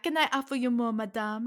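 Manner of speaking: a hint of French accent on an offered refill; light French accent. Waiter offering podcast guest a top-up, light French accent. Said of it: "I just did a French accent".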